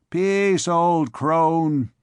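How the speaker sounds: loud, stern hush; stern rebuke. Acted. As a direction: silence the old woman. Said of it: "said a tall, grave person".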